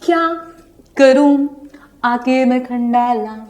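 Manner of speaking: slow, spaced "क्या, करूँ, आके मैं खंडाला", stepping down at the end; falling answer intonation. Shown as a demonstration. Teacher answering her example question, tone falling down to "खंडाला". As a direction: answer word by word, letting "खंडाला" fall. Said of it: "नीचे fall होता हुआ जाएगा".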